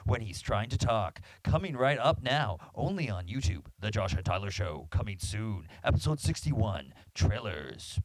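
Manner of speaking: lightly voiced movie trailer announcer; a hint of a dramatic trailer narrator; epic trailer guy voice. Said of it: "I was trying to do my epic, my best epic, uh, trailer guy voice".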